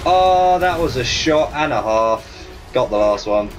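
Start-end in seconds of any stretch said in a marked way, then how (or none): 0.0-2.3 excited wow. Real, not acted. Amazed at a great shot.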